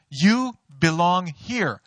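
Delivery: a slow, steady, lightly voiced divine voice; voice of God. God speaking to the pastor in his car, lightly voiced and slow. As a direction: speak it slowly as a calm voice from above. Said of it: "thinking about this voice that I heard".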